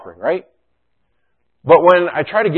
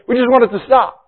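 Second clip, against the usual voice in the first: higher, a touch strained voicing of hurt; mild pained plea; 10 semitones higher, 5 dB louder than usual. Pastor echoing what suffering people feel, mild pained plea. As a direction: let it ache a little as you echo them.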